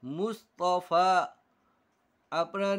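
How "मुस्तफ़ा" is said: मुस्तफ़ा said very slowly, ending on a plain आ; मुस्तफ़ा drawn out syllable by syllable; slow demo reading. Shown as a demonstration. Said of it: "लिखा ज़रूर जाएगा". (मुस्तफ़ा बहुत धीरे साफ़ पढ़ना)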